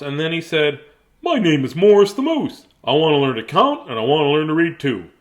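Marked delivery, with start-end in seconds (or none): 1.2-5.1 moose voice. Acted.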